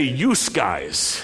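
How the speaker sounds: "You" said as "youse" in "You guys"; Rochester "youse guys". Retold or imitated. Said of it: "They would say".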